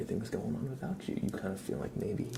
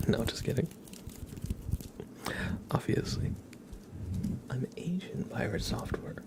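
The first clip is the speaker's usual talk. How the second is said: ASMR whisper; 2 semitones higher than usual. Acted. Joking to chat about being Pirate Software, whispered. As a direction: whisper it like a secret joke.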